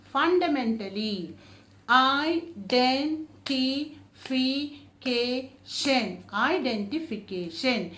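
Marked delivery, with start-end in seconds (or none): 1.9-6.2 very slow, every syllable apart. Shown as a demonstration. Teacher breaking a long word, very slowly. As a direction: stretch out all syllables. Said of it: "five and more than five syllables".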